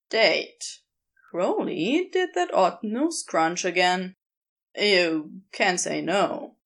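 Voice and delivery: casual, a touch sly; lightly voiced Crowley.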